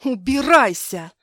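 loud, high shout of refusal. Acted. Wife screams at her drunk husband, loud high shout. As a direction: throw him out with a yell.

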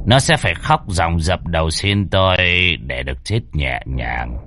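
chilling calm menace; menacing gang boss. A narrator's reading. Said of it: "đều mang sát khí".

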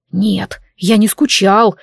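slow hissed denial. Acted. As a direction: hiss it through teeth. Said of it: "прошипел Дарк".

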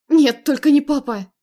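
high, loud anguished cry. Acted. Narrator seeing her father beaten, anguished cry. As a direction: cry out in horror. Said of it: "вскрикнула я".

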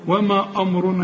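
أمرنا darkened by the heavy ر; وما أمرنا with a heavy opening to the second word; wrongly thickened vowel. Shown as a demonstration. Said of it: "أمال بتقول أمرنا ليه؟".

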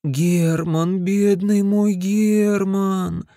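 tender. Acted. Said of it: "нежно шептала она".

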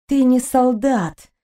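slow, bitter accusation; bitterly. Acted. Kristina bitterly tells the Ederian he is no soldier. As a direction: let the disappointment weigh on each word. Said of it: "горько проговорила Кристина".

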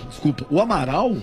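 hoarse voice, throat clearing between words; voz de garganta inflamada. Real, not acted. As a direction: croak through a sore throat. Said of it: "tô com dor de garganta". (voz rouca de dor de garganta)

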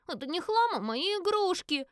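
put-on high, drawn-out childish protest; indignant little girl. A narrator's reading. Little girl protests to her brother. (обиженный детский голосок, высоко и протяжно)

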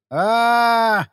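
a drawn-out hammed-up wail of despair; anguished wail. A narrator's reading. Friend wails about love, hammed-up anguished groan. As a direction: groan it out like a lovesick fool. Mock lament over love.

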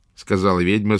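ordinary delivery, nothing marked

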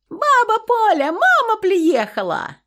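put-on high, loud and slow child shout; a boy calling grandma to the gate; drawn-out high child yell of delight; yelling little boy. A narrator's reading. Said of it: "опять завопил мальчишка".

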